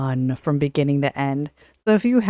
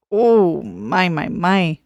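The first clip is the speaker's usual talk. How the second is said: appreciative; 4 dB louder, slower than usual. Real, not acted. Admiring character's red dress.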